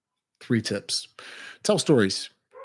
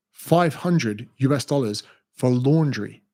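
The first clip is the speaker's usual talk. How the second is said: stunned disbelief; slower than usual. Retold or imitated.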